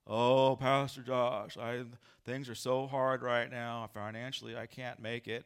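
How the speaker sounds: lightly voiced Eeyore complaint. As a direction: moan like a gloomy donkey. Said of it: "how Eeyore would talk".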